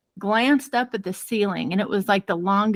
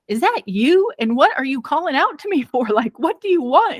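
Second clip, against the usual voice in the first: higher-pitched, exasperated questioning; mock irritated; 5 semitones higher than usual. Wife answering husband's greeting at night, mock irritated.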